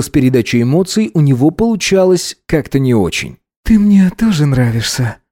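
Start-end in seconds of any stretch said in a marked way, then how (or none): 3.6-5.2 muffled. Acted. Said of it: "Глухо, потому что затягивалась".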